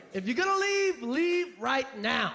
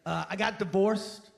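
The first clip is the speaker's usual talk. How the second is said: mock sad-sack guy; 6 semitones lower than usual.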